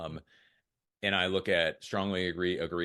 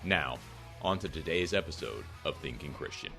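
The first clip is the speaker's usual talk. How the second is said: measured, polished announcer delivery; podcast intro read. Acted. Host welcomes listeners to Thinking Christian, scripted intro read.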